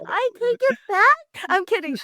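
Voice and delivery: high, laughing retraction; laughing backtrack. Real, not acted. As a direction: giggle it off after being caught. Caught out, laughing it off.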